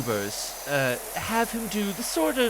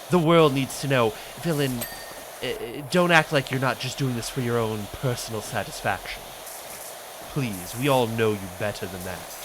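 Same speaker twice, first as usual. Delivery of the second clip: lower, purring vampire dandy; a lightly voiced fake Astarion; 4 semitones lower than usual. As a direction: tease like a wounded aristocratic vampire. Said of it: "do my fake Astarion".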